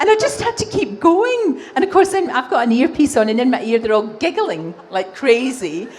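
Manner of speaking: high, giggly storytelling; laughing while telling. Real, not acted. Presenter laughing as she tells the audience about falling on air. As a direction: laugh through the words as you tell it. Recounting her fall, laughing.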